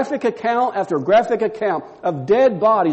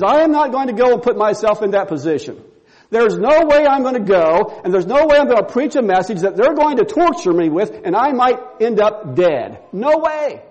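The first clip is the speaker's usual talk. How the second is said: defiant refusal; 3 semitones higher than usual. Acted. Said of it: "And he says".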